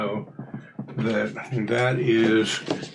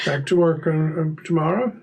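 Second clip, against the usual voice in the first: Mr. Corbett voice; 4 semitones higher than usual. Acted. GM voicing Mr. Corbett.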